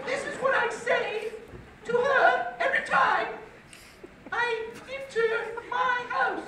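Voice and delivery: high-pitched mock British teacher voice; fake British accent. English teacher performing for her class, fake British accent. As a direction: draw out the ending in a hammed-up British accent. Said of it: "who had a fake British accent".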